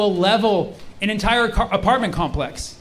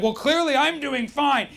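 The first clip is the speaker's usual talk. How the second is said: higher, drawn-out sarcastic reply; 5 semitones higher, 5 dB quieter than usual. Acted. Sick plane passenger who only speaks sarcasm, sarcastic. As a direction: stretch it out with mock sincerity. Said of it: "He only speaks sarcasm".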